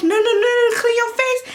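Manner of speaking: mock the kindly old man hushing her; kind stranger's quote. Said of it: "The man was like".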